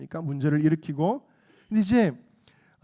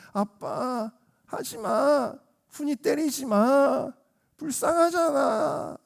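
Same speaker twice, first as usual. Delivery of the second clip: high, drawn-out begging; mock-tearful childlike whine; tearful child's plea; 8 semitones higher, much slower than usual. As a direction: imitate a little boy pleading with his dad. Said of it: "형이 눈물을 글썽거리면서".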